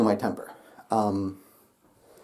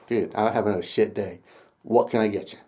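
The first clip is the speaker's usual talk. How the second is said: frank, unfaked; 5 semitones lower, 4 dB quieter than usual. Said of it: "I wouldn't be just pushover".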